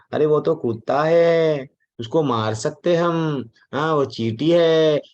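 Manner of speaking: slow, drawn-out mock disdain; dismissive superiority. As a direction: act out a superior person looking down on lesser creatures, slowly. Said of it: "ये रजोगुणी है". (तिरस्कार भरा, धीमा अभिनय)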